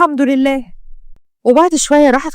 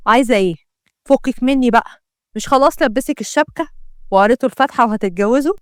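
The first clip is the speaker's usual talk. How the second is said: lightly voiced scornful man, a little lower; dismissive cad; 3 semitones lower than usual. Mohammed dumping Isra after losing his bet, dismissive. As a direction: brush her off with contempt.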